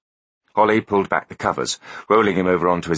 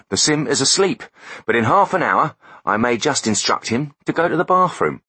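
higher, smug know-it-all voice; smug techie voice; 4 semitones higher than usual. Acted. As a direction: play the gloating tech expert, pitched up. Foley voiced in story.

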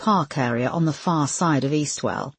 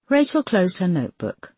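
plain reading voice

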